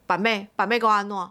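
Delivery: sneering Taiwanese taunt; mock the name like the rude caller. Rude caller taunting the famous seller, mild sneer. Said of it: "然后就回我说".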